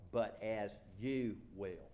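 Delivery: slow, deliberate "but as you will"; measured, weighty close of a verse; scripture reading. Acted. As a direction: draw out "you" and let "will" fall.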